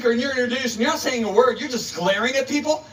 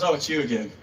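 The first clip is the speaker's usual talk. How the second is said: mock annoyed neighbor; 8 semitones lower, 4 dB quieter than usual. Neighbor's annoyed greeting acted out.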